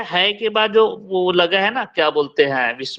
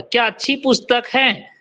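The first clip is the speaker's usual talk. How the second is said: क्या said higher, in amazement; surprised exclamation; 5 semitones higher than usual. Shown as a demonstration. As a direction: sound amazed at the book. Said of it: "ऐसा आश्चर्यचकित होके बोल रहे हैं". (आश्चर्य से, ऊँचे सुर में)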